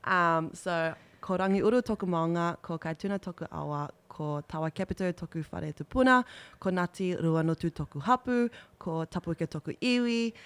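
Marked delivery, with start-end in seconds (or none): 1.2-10.3 reciting pepeha. Shown as a demonstration. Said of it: "I'll have to go off my notes".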